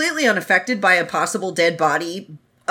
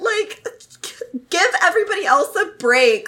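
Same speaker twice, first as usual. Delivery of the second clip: high mock rant; 5 semitones higher than usual. Ranting as Ah Ching.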